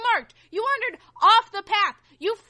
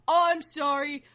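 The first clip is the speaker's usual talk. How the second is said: mock apology; 6 semitones lower than usual. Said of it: "He goes".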